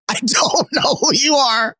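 high, laughing admission; laughing confession. Retold or imitated. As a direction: blurt it through laughter. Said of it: "and I just said".

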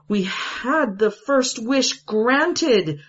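slow, high, urgent plea; wife begging for the second wish; desperate proclamation. A narrator's reading. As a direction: plead each word with desperation. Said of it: "proclaimed with desperation".

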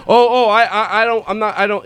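imitating a flustered guest balking; flustered backing out. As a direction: stammer your way out of it. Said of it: "he, like, backed out".

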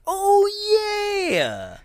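high, drawn-out "oh" dropping to "yeah"; playing along. The speaker pretends to know Santa, exaggerated playing along.

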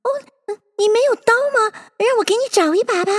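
put-on high, quick, helpful child; fast, high-pitched eagerness; eager little girl. A narrator's reading. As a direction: offer help in a rush. Eager Alice offering the mouse help.

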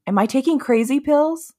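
high-pitched movie quote; Zoolander. Retold or imitated. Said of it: "we quote Zoolander a lot".

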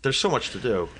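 hushed, pretend-weary whisper; mock whisper. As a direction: breathe it out as if swamped. Joins the mock overwhelmed whisper.

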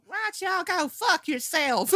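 mock a trashy Southern accent, laughing; thick Southern drawl. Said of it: "that drawl is so thick you can barely understand her".

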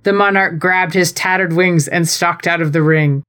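steady storytelling read over music; dramatic reading of a fan story; story narration. Acted. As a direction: read the fanfic like a bedtime tale. Reads own wrestling fanfic aloud.

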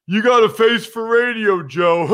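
hammed-up teasing jab with fake laugh; mock heckler. Imitating someone teasing Joe with an old joke, hammed-up. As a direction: crack the stale joke, then guffaw at it. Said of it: "like when someone says to you".

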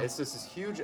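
talking through a burp; words pushed out on a burp. Real, not acted. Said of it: "dad burp".

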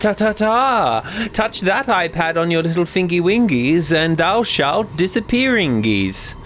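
silly creature voice. Acted. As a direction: warn them like a tiny cartoon dog. Geek Squad dog warns.

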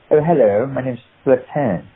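put-on very high-class English accent, lightly done; Queen's English accent. Actor pitching a villain to casting, Queen's English accent. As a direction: introduce yourself in the Queen's English. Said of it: "a, a very high".

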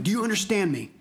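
emphatic scolding, starting high; acted-out tough-love yell; imitated yelling. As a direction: lay down the law, hitting each phrase hard. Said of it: "she's, like, yelling at me".

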